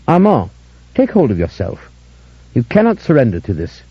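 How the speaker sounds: sad. Acted. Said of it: "His voice was sad".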